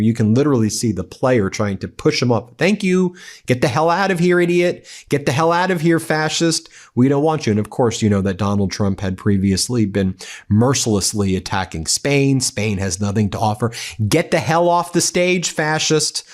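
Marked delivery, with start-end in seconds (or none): 2.6-7.5 high-pitched jeering, get the hell out; mock angry jeers. Players telling Trump to leave. 14.1-16.2 high-pitched jeering insult; mock angry jeer. Players telling Trump to leave.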